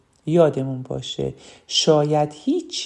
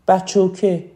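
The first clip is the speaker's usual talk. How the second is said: Shirazi بچوکه, with the added "-oke" ending; Shirazi accent; 3 semitones higher, 4 dB louder, slower than usual. Shown as a demonstration. Teacher gives another dialect example to the class, Shirazi accent. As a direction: say بچوکه as a Shirazi local would. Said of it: "به عنوان مثال یه شیرازی".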